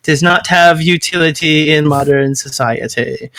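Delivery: slow, laboured lecturer imitation; mock a ponderous debater, word by word. Friend imitating a debater's squirrel argument, slow and ponderous. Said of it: "fucking J F is like".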